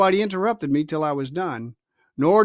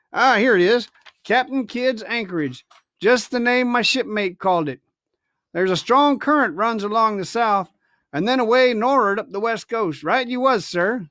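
lightly voiced old sea cook, a touch higher; a sly pirate cook musing over the chart; Silver's voice; 4 semitones higher than usual. Silver musing over the captain's chart, lightly voiced old sailor.

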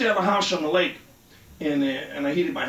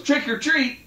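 put-on kid voice; 10 semitones higher, 4 dB louder than usual. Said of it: "the kid goes".

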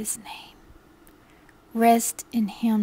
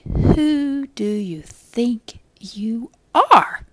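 taunting imp; 5 dB louder, much slower than usual. Acted. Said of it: "And he will say".

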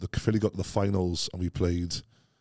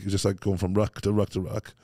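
ordinary talk, nothing marked

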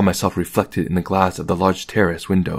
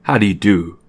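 slightly husky. A narrator's reading. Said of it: "in a slightly husky voice".

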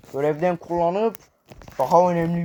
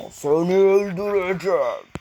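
mock threat; 2 semitones higher than usual. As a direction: put on a menacing game-villain voice. Taunting enemy in game.

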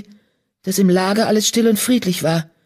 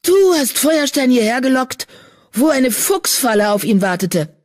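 higher, heated accusation; furious brother confronting the traitor; outraged accusation; 6 semitones higher than usual. A narrator's reading. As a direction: hurl the blame at him. Accusing his half-brother.

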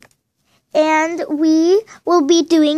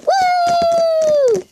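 excited woo; 12 semitones higher than usual. Real, not acted. Celebrating own videos.

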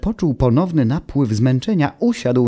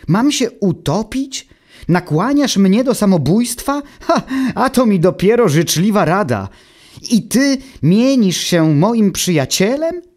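much higher, louder indignant yelling; outraged shouting; 10 semitones higher, 4 dB louder than usual. Acted. Automateusz rages at his friend's deadly advice, much higher and shouting. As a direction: hurl the questions in disbelief. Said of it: "wrzasnął".

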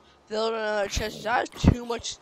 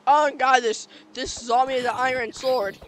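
sudden loud alarm; startled; 2 semitones higher, 6 dB louder than usual. Real, not acted. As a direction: jolt up at the zombie. Zombie appears with sword.

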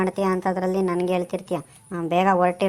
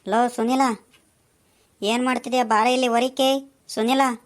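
higher-pitched call to a friend; 4 semitones higher than usual. Acted. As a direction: call him to come outside. Calling a friend to come out.

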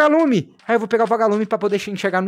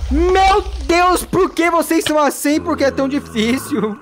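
mock whining; 6 semitones higher than usual. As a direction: wail at the spiders half-jokingly. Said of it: "Eu vou chorar".

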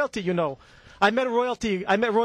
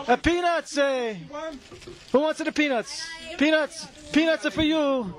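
put-on raised-pitch peanut hawker's call, Italian accent; vendor's call; 3 semitones higher than usual. Vendor offering peanuts to the crowd, Italian-accented hawking. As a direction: call out your wares, drawing out the words.

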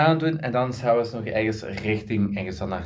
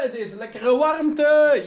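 drawn-out high; 12 semitones higher, slower than usual. Real, not acted. Enjoying the hot weather.

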